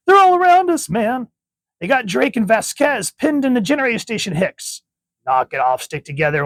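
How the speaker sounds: high, loud battle yelling; frantic soldier shouting. Acted. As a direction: marines barking orders under fire. Marines in combat panic.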